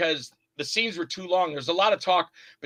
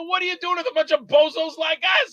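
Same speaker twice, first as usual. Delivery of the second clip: amazed; 11 semitones higher, 4 dB louder than usual. Retold or imitated. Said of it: "I go".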